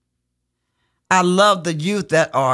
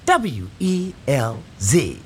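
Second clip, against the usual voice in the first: put-on slow little-boy spelling of W E L Z; lightly voiced child calling the letters; imitating the child; 6 semitones lower, slower than usual. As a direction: spell out W E L Z slowly like a small kid. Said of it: "when he used to say".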